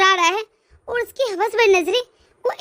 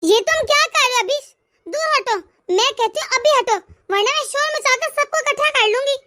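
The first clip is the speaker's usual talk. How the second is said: indignant, urgent warning to back off; angry warning; 2 semitones higher than usual. Acted. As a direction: order him away with mounting anger. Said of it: "आप इस तरह गुस्सा तो मत करें".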